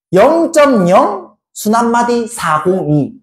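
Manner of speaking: slow, measured textbook reading; model reading. Shown as a demonstration. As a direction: read out the notation slowly, term by term. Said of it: "어떻게 읽냐면". (천천히 또박또박 읽는 시범)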